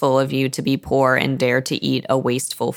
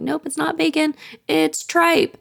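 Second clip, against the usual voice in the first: much higher, playful "Nope"; teasing daughter; 12 semitones higher than usual. Retold or imitated. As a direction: sing it out teasingly, way up high. Meg revealing lunch.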